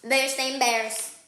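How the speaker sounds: Bear-stained bears said slowly, each word weighed; slow repeat. Shown as a demonstration. Repeating the family name to the kids, slowly. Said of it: "repeats the name".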